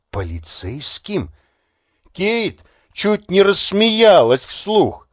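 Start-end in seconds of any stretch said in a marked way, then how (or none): 0.1-1.3 low, much softer disbelieving echo; stunned, hushed. Acted. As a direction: echo the word under the breath in disbelief. Kate stunned by the news.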